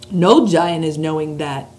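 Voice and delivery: BFG giant voice. Acted. Reads the BFG's lines.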